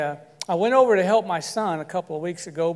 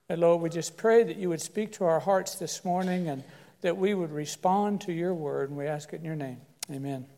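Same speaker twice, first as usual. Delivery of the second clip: prayer; 2 semitones lower than usual. Acted. Pastor prays over the congregation, hushed and gentle. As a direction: pray gently for the church.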